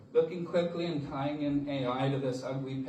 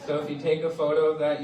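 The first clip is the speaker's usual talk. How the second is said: laughing; 3 semitones higher, 7 dB louder than usual. Real, not acted. Laughing at own QR code joke.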